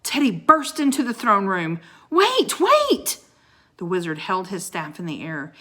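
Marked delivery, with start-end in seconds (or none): 2.1-3.2 higher and louder on each Wait; urgent yell. Acted. Teddy rushing in to stop the wizard, yelling. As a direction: call out to stop the spell. Teddy bursting into throne room.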